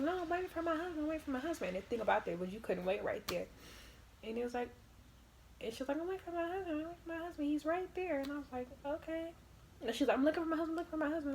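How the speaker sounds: high, repetitive insisting voice; cling to waiting for her husband; insistent lady voice. Retold or imitated. Voicing the pregnant lady.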